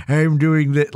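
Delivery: put-on spooky old man voice. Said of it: "it's when we're like".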